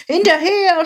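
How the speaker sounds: high, loud battle call; shouted order. A narrator's reading. Captains send the army after the people, shouting. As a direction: call the troops into pursuit. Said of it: "schrien die Hauptleute".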